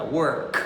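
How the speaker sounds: teacher modelling a throaty K in Work; K in the throat. Shown as a demonstration. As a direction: Work ending with a K held in the throat. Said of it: "um K que fica aqui na garganta".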